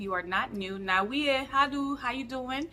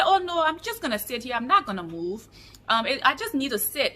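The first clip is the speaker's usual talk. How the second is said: imitating a man with a Nigerian accent; 3 semitones higher, 3 dB louder than usual. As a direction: attempt a light Nigerian accent. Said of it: "do my best Nigerian accent".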